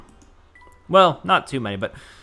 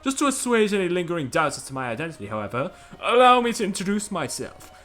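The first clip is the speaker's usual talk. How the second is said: lightly voiced pompous gentleman; Graham; 4 semitones higher than usual. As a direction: introduce yourself as a self-important dandy. Voices Graham introducing himself.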